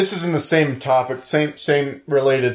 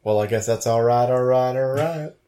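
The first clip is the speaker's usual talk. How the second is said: Matthew McConaughey. Pretend. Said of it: "They think one of us is Matthew McConaughey".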